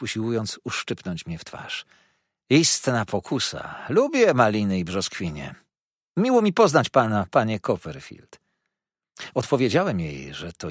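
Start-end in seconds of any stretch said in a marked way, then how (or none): 2.5-8.4 lightly voiced coquettish greeting; a hint of playful flirting; flirty dwarf lady. Karlica flirtuje z Davidem. (lekko zalotnie, głosem karlicy)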